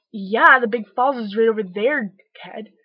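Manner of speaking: put-on loud, patronizing "Yeah, the Big Falls is right over there, kid"; sarcastic reply. Worker answering a clueless tourist, loud and sarcastic. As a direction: talk down to a tourist child.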